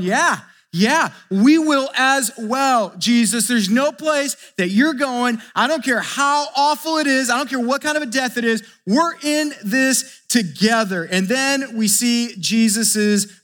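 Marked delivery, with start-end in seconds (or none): 0.0-11.0 eager disciples' pledge. Acted. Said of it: "all the disciples are there going".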